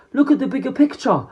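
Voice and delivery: high, loud plea yelled at his master; desperate yell. A narrator's reading. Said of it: "He yells at Babidi".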